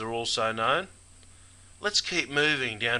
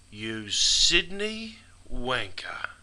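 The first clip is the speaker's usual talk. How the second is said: slow, drawn-out jeering insult; mock Brisbane local; much slower than usual. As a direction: sneer it out slowly like a Queensland bloke. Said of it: "a Brisbaneite might say".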